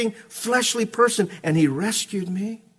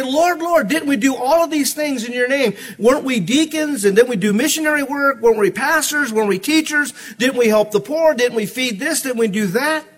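pleading religious crowd; 5 semitones higher than usual. Retold or imitated. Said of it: "many are gonna come to him and say".

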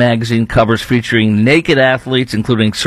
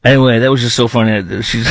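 ordinary talk

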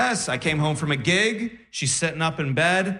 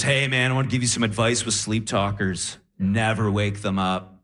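low, measured words of caution; lightly voiced earnest advice-giver, pitched low; audience member's advice; 5 semitones lower than usual. Audience member advising comic after show, low earnest voice. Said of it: "and he goes".

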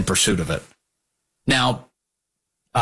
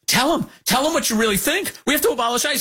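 high, pushy mock voice of Jane, goading; 13 semitones higher, faster than usual. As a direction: raise the pitch and egg him on. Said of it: "Jane's encouraging him".

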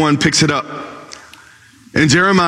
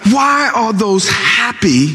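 mock shout; 5 semitones higher, slower than usual. Complaint rises.

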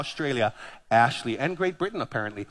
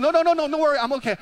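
high, louder, choked-sounding "no, no"; strained mock protest; 9 semitones higher, 3 dB louder, much faster than usual. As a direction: imitate a man wheezing that he's fine. The coughing man insists he's fine.

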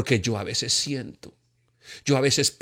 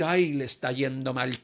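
gloating; 5 dB quieter than usual. Retold or imitated. Mock gloating at someone's misfortune.

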